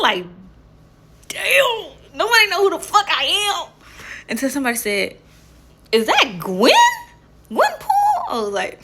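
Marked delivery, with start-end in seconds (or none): 1.3-3.7 laughing complaint. Retold or imitated. Retelling own thought, laughing. 5.9-8.2 squealed high, excited recognition; a fan spotting Gwen, voice jumps way up. Retold or imitated. Fan recognizes her costume.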